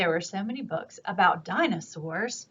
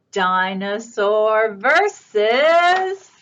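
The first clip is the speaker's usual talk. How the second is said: slow, stretched build-up; match-up announcer; 4 dB louder, much slower than usual. Acted. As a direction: draw it out for suspense.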